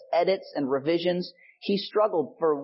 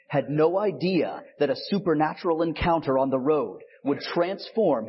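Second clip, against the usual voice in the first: movie trailer narrator read; 2 semitones lower than usual. Pretend. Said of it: "my best, uh, trailer voice".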